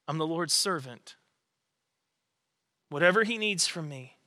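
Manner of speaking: a quiet vow of obedience; hushed surrender. Retold or imitated. Preacher voicing Mary's yes, hushed and devoted.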